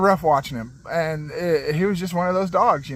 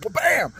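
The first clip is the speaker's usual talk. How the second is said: punchy, higher-pitched bam; impact noise; 8 semitones higher than usual. Retold or imitated. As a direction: imitate a collision with one sudden bam. Imitates dog hitting a tree.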